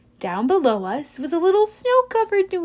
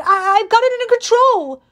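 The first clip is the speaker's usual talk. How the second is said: high, loud, stammering denial; nervous girl claiming control; flustered insistence; 10 semitones higher, 5 dB louder than usual. A narrator's reading. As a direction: insist you're fine while clearly not. Talia insisting, panicking.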